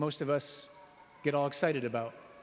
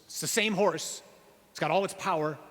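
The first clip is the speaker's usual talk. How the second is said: excited; 4 semitones higher, 4 dB louder than usual. Real, not acted. Praising the tamed horse.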